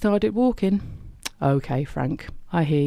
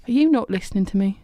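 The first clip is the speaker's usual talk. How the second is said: quick, exasperated and a bit louder; 4 semitones higher, 3 dB louder, faster than usual. Acted. Frank scolds Hope, exasperated. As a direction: Frank losing patience with Hope.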